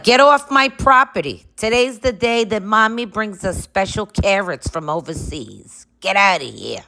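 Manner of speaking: put-on high, huffy little-girl pony voice; grumpy pony voice. Pony chasing the boys off the property, high huffy voice. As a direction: shoo them off like a cranky pet. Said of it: "She's like".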